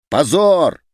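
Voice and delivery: loud, high cry of shame; desperate shout. A narrator's reading. Someone in the hall crying out in despair. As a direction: fling it out in despair. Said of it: "отчаянно кричал кто-то в зале".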